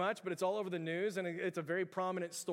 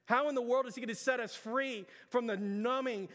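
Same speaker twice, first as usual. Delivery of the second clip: fiery preaching; 4 semitones higher than usual. Acted. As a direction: press the congregation hard, rising in urgency. Preaches at full force.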